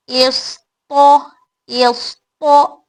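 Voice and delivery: इस, तो drawn out slowly; slow drill. Shown as a demonstration. Teacher drilling syllables slowly for students. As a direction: stretch each syllable for students. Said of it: "slow syllable drill".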